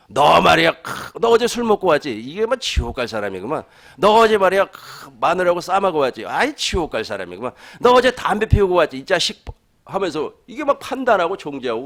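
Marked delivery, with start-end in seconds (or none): 0.1-9.4 mock legalist scolding. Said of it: "율법주의자들이 하는 거라니까요".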